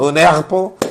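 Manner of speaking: "erpo" with a throaty, untrilled R; mispronounced R. Retold or imitated. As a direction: show the botched R in "erpo", no roll. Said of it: "Yo no podía pronunciar la R". ("erpo" con la erre fallida, sin vibrar)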